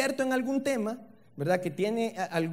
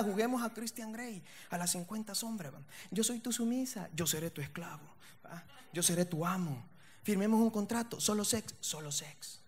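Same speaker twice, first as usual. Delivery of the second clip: mock seductive murmur; 11 dB quieter than usual. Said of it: "les ha agarrado esa moda".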